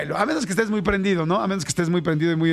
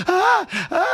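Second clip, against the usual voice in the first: frightened cry; 12 semitones higher than usual. Retold or imitated. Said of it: "se espantaba".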